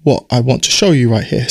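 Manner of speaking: hoarse croaky throat. Real, not acted. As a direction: talk through a croaky voice. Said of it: "do excuse the croaky voice".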